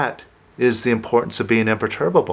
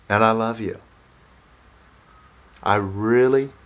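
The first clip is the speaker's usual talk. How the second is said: tender self-affirmation; 4 semitones lower than usual. Shown as a demonstration. Coach modelling an affirmation for listeners, gentle and tender. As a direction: say it to yourself like a loving promise. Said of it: "and say".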